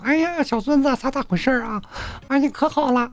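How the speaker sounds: put-on high, sing-song granny voice cooing at a baby; high doting grandma baby talk. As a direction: coo like a delighted grandmother. Grandma voiced on video call.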